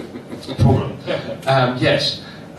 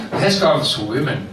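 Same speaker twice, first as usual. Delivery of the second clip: lower, badly faked Moroccan accent; mock Moroccan accent; 4 semitones lower than usual. Barber explains headscarves to the comic, rough Moroccan accent. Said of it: "That was the accent".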